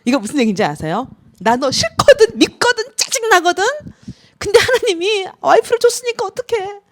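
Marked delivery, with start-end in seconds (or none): 1.4-6.8 high, loud mock outcry of the husband's real feelings; anguished cry. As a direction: wail it out like a husband at his limit. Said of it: "그러면서 절규입니다". (높고 크게 과장해서 외치는 남편의 속마음 절규)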